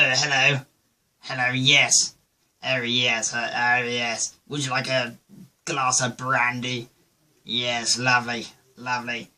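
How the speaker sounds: lightly mocking posh English voice; hammed-up upper-class English accent. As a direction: parody a posh host offering drinks. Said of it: "they always have this type of voice".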